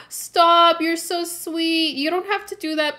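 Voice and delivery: high, gushing protest, fast climbing to a squeak; bashfully begging the viewer to stop; flattered squeal. Real, not acted. Streamer gushing at a generous viewer, high flustered protest.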